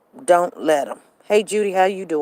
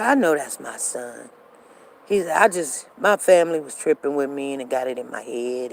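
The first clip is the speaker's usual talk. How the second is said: soft apologetic ex; 5 semitones lower, 5 dB quieter than usual. Retold or imitated. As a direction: lower and softer, mumbled apology.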